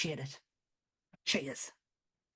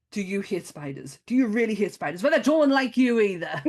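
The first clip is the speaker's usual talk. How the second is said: builds from flat to a loud laughing punchline; hamming up the movie tagline, rising to a laugh; mock trailer tagline; 3 semitones higher, 5 dB louder than usual. Reciting the trailer tagline to her co-host, building into laughter. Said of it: "That tagline".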